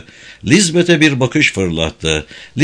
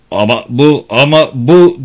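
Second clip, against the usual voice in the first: sputtering, rising louder in dismay; mock grumble; 2 semitones higher, 5 dB louder than usual. Guard Alvar sputtering at the bloody scene, a mock grumble. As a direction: grumble it, losing control. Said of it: "diye homurdandı Alvar".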